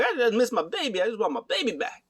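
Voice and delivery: high-pitched, hammed-up plea; overacted begging in a high voice; mock pleading. Acting out a pleading wrestler.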